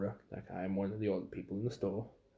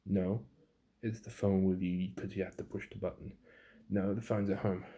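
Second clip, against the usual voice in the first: raised, insistent customer; mock customer, louder; 5 dB louder than usual. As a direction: push back like a stubborn customer.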